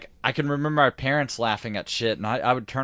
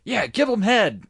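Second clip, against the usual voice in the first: goofy cartoon voice; 10 semitones higher, 5 dB louder than usual. Mocking a crude cartoon line.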